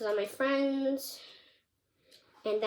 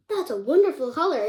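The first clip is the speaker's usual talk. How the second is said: mock praise, a touch louder; sarcastic; 5 dB louder than usual. Real, not acted. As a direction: say it as a dry fake compliment. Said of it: "I'm just being sarcastic".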